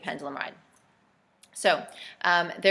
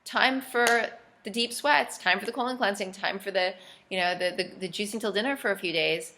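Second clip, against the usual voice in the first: determined resolve; 2 semitones higher than usual. Retold or imitated. Person owning their mess, briskly determined and upbeat. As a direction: announce it like a cheerful drill sergeant to yourself. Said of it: "The attitude is to say".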